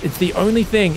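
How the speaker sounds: ordinary talk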